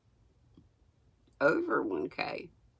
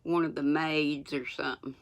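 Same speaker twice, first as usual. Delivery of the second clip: reading without teeth in; gummy toothless speech. Real, not acted. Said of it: "I'm gonna sound crazy reading without my teeth".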